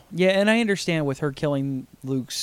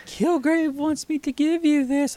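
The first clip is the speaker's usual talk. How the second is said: henchman voice; 10 semitones higher than usual. Retold or imitated. Voicing a henchman line.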